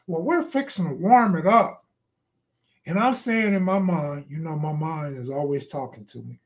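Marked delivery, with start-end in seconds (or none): 0.1-1.8 mock weird accent, lightly put on; a hint of her weird accent; Roseanne Barr. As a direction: imitate her odd way of talking. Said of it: "that weird accent".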